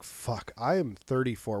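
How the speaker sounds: dismayed whisper. Retold or imitated. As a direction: mutter under your breath about your age. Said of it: "you're like".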